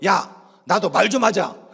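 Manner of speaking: loud, slow comic protest; mock exasperated outburst. Pastor interrupting sermon to the deacon, mock exasperated. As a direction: break off and plead loudly, imitating. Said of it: "목사님이 갑자기 설교하다 말고".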